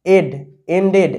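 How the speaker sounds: এড alone, then এন্ডেড with a full last syllable. Shown as a demonstration. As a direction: demonstrate এড, then blend it into এন্ডেড. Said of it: "একই রকমভাবে দেখো". (এড, তারপর এন্ডেড স্পষ্ট উচ্চারণ)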